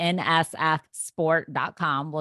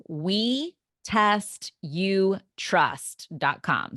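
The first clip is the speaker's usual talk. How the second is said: slow and clear; 3 semitones higher, much slower than usual. Shown as a demonstration. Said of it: "spelling out the website slowly".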